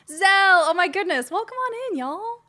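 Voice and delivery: very high, thrilled welcome; excited greeting. Real, not acted. Streamer welcoming Zell in, very high and excited. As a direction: squeal of delight at a new arrival.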